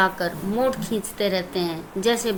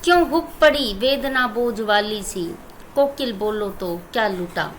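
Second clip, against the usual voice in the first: poem recitation. Shown as a demonstration. Teacher recites poem stanza.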